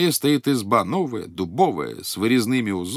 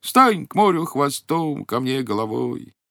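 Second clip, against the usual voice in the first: higher, drawn-out call to the sea; 4 semitones higher, slower than usual. Acted. Old man calls the golden fish from shore, calling out. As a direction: call the fish across the water. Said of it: "крикнул громким голосом".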